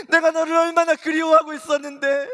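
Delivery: Jesus at full force, longing for his son; the top of the build, 내가 hit hardest; Jesus crying out. Retold or imitated. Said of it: "주님이 이렇게 말씀하셨어요".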